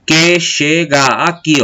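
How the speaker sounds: "chega aqui" slowly, the two a sounds run into one; joined vowels. Shown as a demonstration. Teacher showing vowels that join, slow syllables with one merged a. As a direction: stretch "que chega" by syllables, merging into the next vowel. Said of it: "ela se junta".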